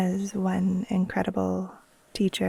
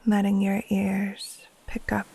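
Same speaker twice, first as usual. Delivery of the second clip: guided meditation. Acted. Teacher guiding listeners to settle in and breathe, calm meditation voice. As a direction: ease them gently into rest, leaving space between phrases.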